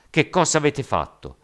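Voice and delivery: loud, high outraged shout; shouted rebuke. A narrator's reading. Zhao confronting the rioters, shouting. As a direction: demand an answer at full voice. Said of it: "gridò Zhao".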